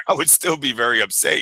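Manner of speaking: laughing through the line. Retold or imitated. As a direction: chuckle while you say it. Quote restarted through a laugh.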